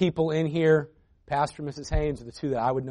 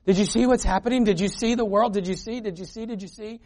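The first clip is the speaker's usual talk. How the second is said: anxious grandmother; 5 semitones higher than usual. Retold or imitated. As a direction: imitate a worried grandma pestering Grandpa. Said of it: "she'd be like".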